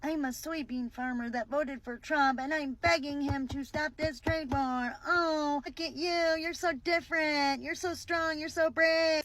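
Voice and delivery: lightly voiced whiny farmer, sneering; a hint of a simpering Trump voter; mock farmer voice. Commentator mocking a Trump-voting farmer, in a simpering voice.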